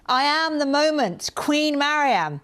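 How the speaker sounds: slow, pompous self-crowning; mock grandiose. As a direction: proclaim yourself queen, slowly. Grandiose joke over her banknote.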